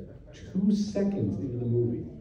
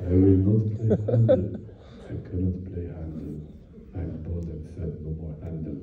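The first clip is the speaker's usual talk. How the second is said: much lower, softer mock German actor grumble; grumbling old actor; 10 semitones lower, 4 dB quieter than usual. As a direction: grumble it low under your breath. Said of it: "And he starts going like this".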